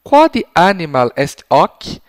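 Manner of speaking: slow, loud, spelled-out Latin question; slow repeated question. Shown as a demonstration. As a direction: repeat it slowly for the child. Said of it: "com a seguinte pergunta".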